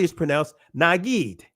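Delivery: Nagid said nah-GEED, stress on the second syllable; Israeli pronunciation. Shown as a demonstration. Teacher sounding out Nagid for the class, nah-GEED. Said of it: "in the Israeli".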